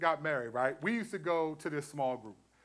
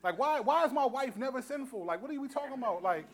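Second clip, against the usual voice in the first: higher, half-laughing gripe about always being blamed; mock outrage at the group's rule, pitched up; retelling his old complaint to his wife, higher and mock-indignant; 6 semitones higher than usual. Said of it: "'cause I used to say this".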